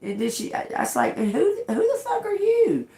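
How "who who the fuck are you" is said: high, loud indignant challenge; confronting the maintenance lady, loud and high; retold yell. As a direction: demand it like she's in your face.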